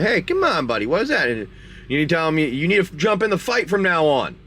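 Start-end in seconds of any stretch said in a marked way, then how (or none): 0.0-1.3 high start dropping to usual pitch; playful, softened reproach to a buddy; gentler chiding. Pretend. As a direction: coax a pet with a mild telling-off. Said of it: "You don't smack him hard. It's more like a".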